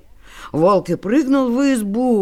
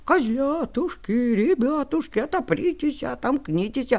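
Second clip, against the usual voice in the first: thin, soft fake-sweet wolf; wolf sings thin and sweet to fool them; wolf faking sweetness; 3 semitones higher, 4 dB quieter than usual. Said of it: "А волк и запел тоненьким голоском".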